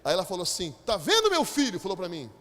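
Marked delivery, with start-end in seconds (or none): 0.8-1.8 a touch higher and louder church sister; lightly voiced old sister scolding; mock church sister.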